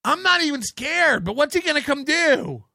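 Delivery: high-pitched mimicry of nervous denial; hammed-up anxious insistence; mock worried protesting. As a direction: imitate someone protesting far too much. Mimicking men who claim not scared.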